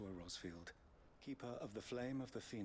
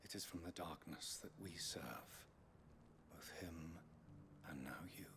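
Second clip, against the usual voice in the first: creepy calm cultist; 3 dB quieter than usual. Acted. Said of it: "You sound like a cultist".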